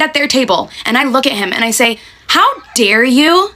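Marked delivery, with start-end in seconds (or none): 2.3-3.5 telling them off. Retold or imitated. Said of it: "I go off at them".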